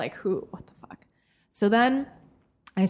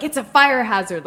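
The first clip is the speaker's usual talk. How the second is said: mock angry repeat; 3 semitones higher, 6 dB louder than usual. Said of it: "And she's like".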